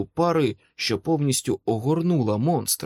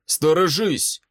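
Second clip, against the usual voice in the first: higher-pitched urgent warning cry; warning shout; 5 semitones higher, 3 dB louder than usual. A narrator's reading. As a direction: call out a sudden warning. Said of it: "прокричав Майкл". (застережливий вигук)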